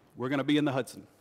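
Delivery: low, even, unbothered delivery. Retelling what the captain told the passengers: Captain Sullenberger's cool captain voice. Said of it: "in the cool captain voice".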